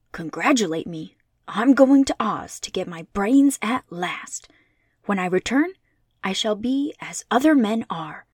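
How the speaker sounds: bright straw man eager for his brains; cheerful Scarecrow. Acted. Scarecrow telling friends he gets brains, lightly voiced cheerful.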